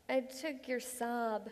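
slow, sheepish admission with a laugh in it; reluctant confession. Acted. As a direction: draw the confession out, trying not to laugh. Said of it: "Why did you say it like that?".

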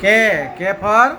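put-on slow, coaxing prompt for a small child; reading to a toddler. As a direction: draw the letter out for a little one. Mother prompting toddler slowly.

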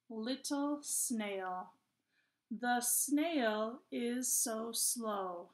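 slow, measured poem reading with pauses between phrases; poem read to children. Acted. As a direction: read word by word, slowly, for young children. Reads the poem once more.

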